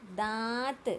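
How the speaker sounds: दांत with a long nasal vowel; nasalized vowel demonstration. Shown as a demonstration. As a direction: model दांत through nose and mouth. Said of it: "नाक दोनों से". (दांत, नाक और मुंह दोनों से)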